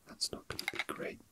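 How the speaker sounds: ordinary talk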